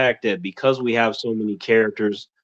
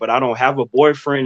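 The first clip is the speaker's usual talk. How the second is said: normal talking voice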